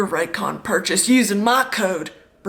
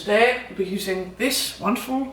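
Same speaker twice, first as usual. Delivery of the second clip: mock British accent. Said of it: "talk like Gordon Ramsay".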